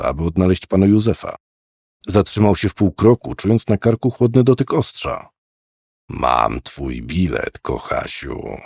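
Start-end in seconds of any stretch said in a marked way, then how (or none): 6.1-8.6 low, slow, soft whisper fading to breath; an old killer whispering at the boy's neck. Acted. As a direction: menace him quietly from behind. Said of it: "szepnął Cyppek".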